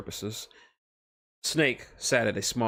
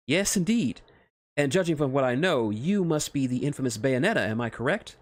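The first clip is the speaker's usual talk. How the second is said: higher, eager, flustered scientist; a lightly higher nervous nerd; nervous Otacon voice; 5 semitones higher, 4 dB louder than usual. Acted. Scientist flustered meeting Snake's friends, higher nervous voice.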